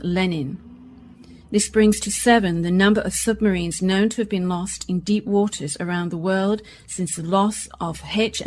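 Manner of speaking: measured bulletin delivery; radio news read. Acted. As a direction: read the news evenly to listeners. Newsreader reads the bulletin.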